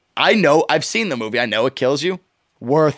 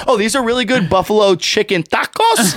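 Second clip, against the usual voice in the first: imitating the TV chef; 6 semitones higher than usual. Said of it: "He'll be like".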